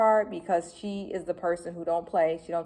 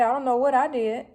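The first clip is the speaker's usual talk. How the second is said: mock clueless partner; 6 semitones higher, 4 dB louder than usual. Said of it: "She over there mad".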